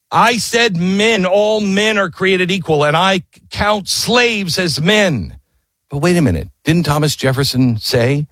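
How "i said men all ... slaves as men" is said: high, slow, insistent delivery; emphatic declaration. Retold or imitated. Jefferson makes the king remember his words, high and emphatic. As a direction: drive each phrase home, pitched well up. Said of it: "he wants the king to see it and remember".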